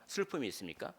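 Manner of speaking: ordinary talk, nothing marked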